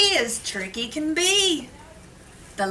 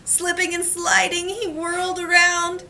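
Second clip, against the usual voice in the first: put-on reading to children; 2 semitones higher than usual. Reads picture book to class.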